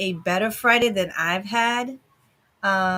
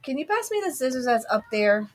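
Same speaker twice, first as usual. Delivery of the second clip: turning away from phone; 3 semitones higher than usual. Real, not acted. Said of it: "Sorry, talking to my daughter".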